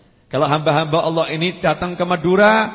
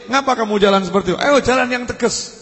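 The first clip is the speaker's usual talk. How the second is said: retold scolding; 4 semitones higher than usual. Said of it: "Dimarahi, mengambil pecutnya".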